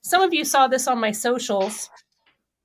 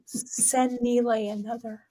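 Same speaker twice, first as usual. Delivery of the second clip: radio control room voice; 5 dB quieter, slower than usual. Pretend. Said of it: "it could also be like this".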